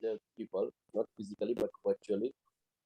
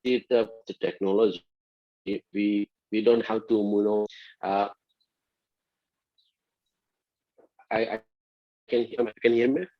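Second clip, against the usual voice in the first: shouting into a phone; 8 dB louder than usual. Real, not acted. Loud over chopped internet line.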